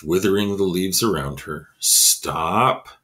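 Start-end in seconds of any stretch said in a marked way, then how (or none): 1.8-2.9 gentle plea. Acted. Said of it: "thought Jeremy again".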